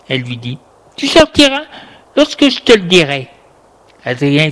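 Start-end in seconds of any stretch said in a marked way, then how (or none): 1.0-3.3 louder, higher firm retort; authoritative scolding, pitch falling at the end; stern command. A narrator's reading. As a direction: lay down the law. Grandmother overrules shouting grandson.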